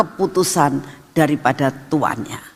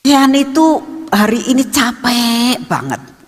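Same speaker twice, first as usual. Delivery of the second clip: coaxing grandchild; 6 semitones higher than usual. Retold or imitated. Grandchild wheedling Grandma to skip lessons, coaxing child. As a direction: imitate a child wheedling with tiredness. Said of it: "tiba-tiba ngomong gini".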